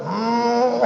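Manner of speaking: single humming mock sob; imitated second-gear whimper. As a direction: whine like a car in second gear. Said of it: "second ಗೇರಿಗೆ ಬೀಳ್ತದೆ".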